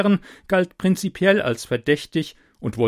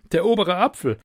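laughing realisation; 7 semitones higher, 4 dB louder, faster than usual. A narrator's reading.

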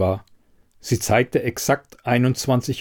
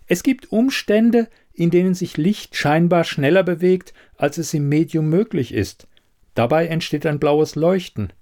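higher-pitched expert voice, measured opening; explaining investigator; 6 semitones higher than usual. Acted. Elida explaining physics to the puzzled quizmaster, higher expert voice.

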